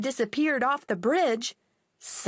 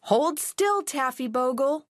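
calling firmly; called out; 3 semitones higher than usual. Acted. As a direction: call to the dangling dog. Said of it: "called the pilot".

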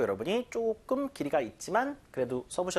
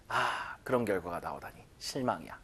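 acted disappointment; 9 semitones lower, 7 dB quieter than usual. Teacher acts out disappointment.

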